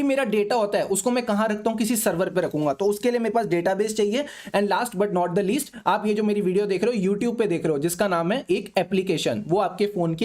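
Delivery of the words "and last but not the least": slow emphasis. Shown as a demonstration. Teacher slows for emphasis.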